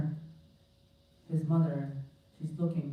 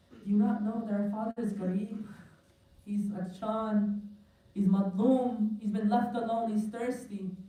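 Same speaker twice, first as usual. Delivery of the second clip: higher, drawn-out retold lament; mock crying lament; 5 semitones higher, slower than usual. Ali Akbar answers his brother about their forsaken father, lightly acted grief. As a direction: grieve aloud for an abandoned father, stretching the words. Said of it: "starts crying and crying".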